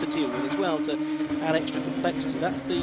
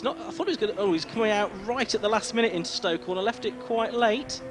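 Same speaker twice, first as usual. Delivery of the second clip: excited commentary; 5 semitones higher than usual. Real, not acted. Live call of late move.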